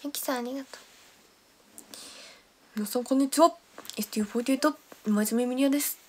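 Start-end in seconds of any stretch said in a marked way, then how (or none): 2.8-6.0 a light impression of the idol's greeting, slightly louder; imitating Miria. Streamer imitating idol member Miria's greeting for viewers. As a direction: mimic a fellow member's self-introduction. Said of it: "ミリアの真似。".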